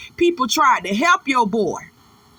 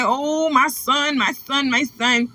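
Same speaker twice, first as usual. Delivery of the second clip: mock grieving mother. Mimicking Miss Lori talking about her son, mock grieving. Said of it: "sit over here and make it seem like".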